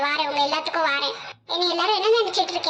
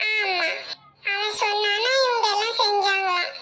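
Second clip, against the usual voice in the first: tearful accusation; 2 semitones higher, slower than usual. Acted. Crying while accusing the kidnapper.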